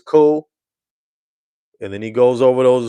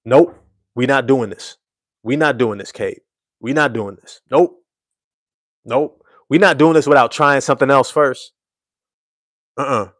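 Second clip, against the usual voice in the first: louder, emphatic refusals, nope after nope; firm no; 4 dB louder than usual. Retold or imitated. Teammates benching Cade like a driver, loud and firm. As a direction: shut it down hard. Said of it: "should have been like".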